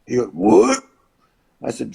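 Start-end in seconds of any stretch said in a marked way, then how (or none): 0.3-0.8 higher-pitched startled question; imitated disbelief. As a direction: blurt it like a stunned colleague. Wrestler's startled reply, retold.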